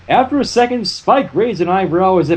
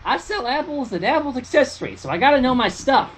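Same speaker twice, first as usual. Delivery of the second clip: lightly voiced Hank Hill; 8 semitones higher, 4 dB quieter than usual. Hank Hill line as Applejack.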